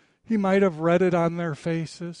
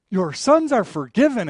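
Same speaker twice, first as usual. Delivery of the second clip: louder, proclaiming the forgiveness; emphatic pronouncement; 2 semitones higher, 7 dB louder than usual. Acted. Jesus proclaims forgiveness before the teachers, loud and emphatic. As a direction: declare it out loud to the crowd. Jesus's words restated as trigger.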